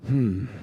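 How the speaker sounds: imitated weary "hmm"; annoyed sigh. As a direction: sigh out a put-upon hmm. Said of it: "he sighed and he looked really annoyed".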